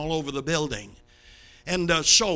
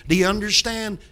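louder, pressing question; stern demand; 3 semitones higher, 5 dB louder than usual. Retold or imitated. Father pressing his son after the threat, stern and loud. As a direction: make him answer you.

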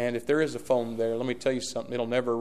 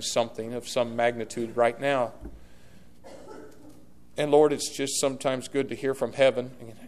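closing prayer. Acted. Pastor praying over his congregation, fervent.

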